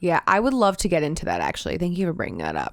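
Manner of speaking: deadpan, could pass for sarcasm; mean it, but let it sound dry; sarcastic-sounding sincerity. Real, not acted. Podcaster thanking co-host for the topic, sincere but sarcastic-sounding. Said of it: "I realized it sounded sarcastic".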